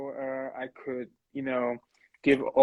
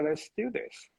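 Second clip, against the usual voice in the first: whispering the quote; whispered; 5 dB quieter than usual. Retold or imitated. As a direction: breathe the words in a whisper. Retelling the company's eager reply.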